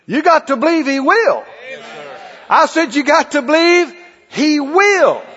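insistent preaching. Real, not acted. Preacher insists, answering timid believers.

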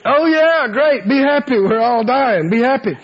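mock enthusiasm from a doomed sailor; acted grumbling disbelief; sarcastic. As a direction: scoff at the cheery advice. Acts crew scoffing at being happy.

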